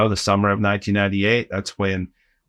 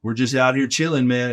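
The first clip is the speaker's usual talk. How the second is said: stoner DJ. Retold or imitated. Stoner DJs on the mic.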